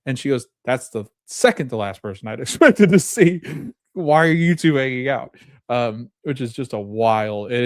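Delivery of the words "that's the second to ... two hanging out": raised pitch, breaking into a laugh mid-line; amused quote with a chuckle inside; laughing retelling. Retold or imitated. Sarah is surprised by the two visitors, retold with laughter.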